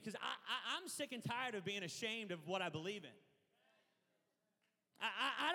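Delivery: laughing through the words. Real, not acted. Pastor laughing about being unashamed, laughing. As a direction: chuckle as you speak.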